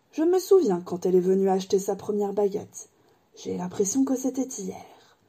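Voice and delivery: lightly voiced, wistful old wandmaker; a hint of an old craftsman remembering. Ollivander remembers Harry's mother, lightly voiced old man.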